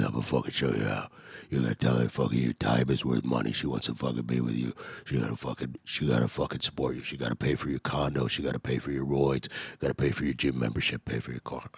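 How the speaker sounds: gruff, pushy pimp impression. Pimp friend coaching him on money, gruff. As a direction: lay out the scheme like a rough old hustler. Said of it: "real gruff voice, he talk like this".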